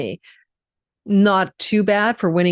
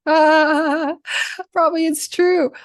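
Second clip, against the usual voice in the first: higher, laughing admission; 10 semitones higher, slower than usual. Real, not acted. Astrologer laughing off her own lecture to Scorpios, higher and laughing. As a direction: laugh it off, conceding.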